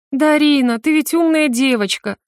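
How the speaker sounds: sweet, high, honeyed tone; falsely tender. A narrator's reading. Witch coaxes the girl with false tenderness, high and sweet. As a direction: coax her like a child. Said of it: "ласково произнесла Верховная".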